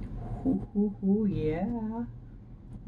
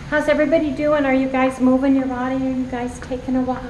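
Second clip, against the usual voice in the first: upbeat, louder and higher hello; cheery greeting; 5 semitones higher, 7 dB louder than usual. Real, not acted. Vlogger on her walk loudly greets her viewers. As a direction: call out brightly to the viewers.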